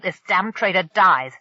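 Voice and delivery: loud, falling threat on dies; threaten, landing hard on dies; menacing threat. Acted. Pirate threatens hostage.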